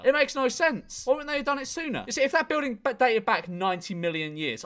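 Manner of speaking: worked-up disbelief; exasperated ranting. Real, not acted. Exasperated rant at the theory.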